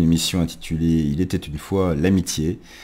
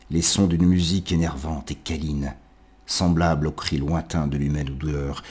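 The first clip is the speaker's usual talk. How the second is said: poetry recitation. Acted. Lit Le vin du solitaire. (récitation de poème, posée puis montant en intensité)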